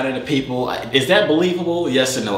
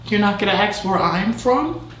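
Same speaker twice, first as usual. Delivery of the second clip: voice changer voice; 6 semitones higher than usual. Pretend. Repeats in voice changer voice.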